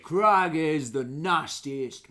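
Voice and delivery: slow loud boast; proud boast. Acted. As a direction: savour the menace. Ranger boasts of dog.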